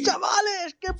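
squeaky high-pitched shout. Pretend. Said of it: "Vuelve a hacerlo con esa voz".

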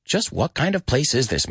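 high exasperated list, peaking on the last item; acted frustrated rant. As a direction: tick off each lack in rising disbelief. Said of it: "He's starting to get frustrated".

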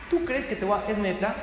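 casual, mocking disbelief in street slang; a wry es neta, only half serious; slangy disbelief. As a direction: scoff at him like a buddy. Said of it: "no le dijo así".

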